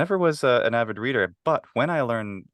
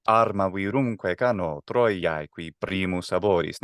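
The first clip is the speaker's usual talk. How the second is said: recited verse; slower than usual. Shown as a demonstration. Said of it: "that's also like the".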